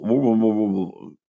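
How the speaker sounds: imitating muffled, indistinct speech; wordless mumbling woo-woo babble; mumbled gibberish. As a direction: mimic talk heard through a bad ear. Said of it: "It's all mumble".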